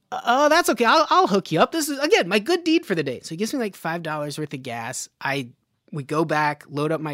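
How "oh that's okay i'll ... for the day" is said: a hint of a kindly old man, higher and louder; sweet old man. Old man paying for her gas, cheerfully reassuring. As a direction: reassure her like a generous grandpa. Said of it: "So he's like".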